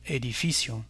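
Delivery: edificio stressed on FI; Spanish edificio, accent falling on "fi"; stress on second-to-last syllable. Shown as a demonstration. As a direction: say e-di-FI-cio as a model word. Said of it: "l'avant-dernière syllabe est accentuée".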